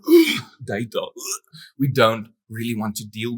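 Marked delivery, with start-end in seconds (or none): 0.1-1.4 groaning "ugh" of reluctant creatives; mock disgust. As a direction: groan as if dreading the topic. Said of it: "all the creatives among us go".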